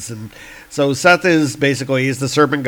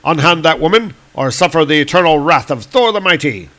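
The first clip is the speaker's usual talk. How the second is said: louder heroic command; shouting; 3 semitones higher, 6 dB louder, faster than usual. Acted. Thor challenging the beast, louder commanding shout. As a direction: bellow the challenge. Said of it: "shouting at this creature".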